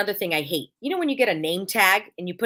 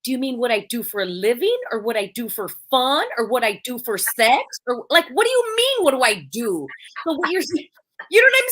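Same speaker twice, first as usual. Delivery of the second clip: sarcastic retort; 4 semitones higher, 4 dB louder than usual. Retold or imitated. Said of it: "I'm going".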